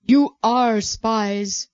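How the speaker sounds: very slow, firm accusation; insisting. Acted. Joseph insisting to his brothers, very slow and firm. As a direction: lean on each word, unmoved. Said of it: "Joseph insisted".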